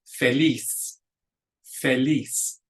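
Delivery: feliz with the stress on -LIZ; stress on last syllable. Shown as a demonstration. Teacher showing the accent rule, feliz stressed on the last syllable. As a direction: model feliz in Spanish, leaning on the final syllable. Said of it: "accent goes on the last syllable".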